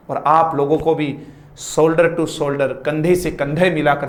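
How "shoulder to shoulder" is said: slow emphasis. Acted. Motivational lesson close.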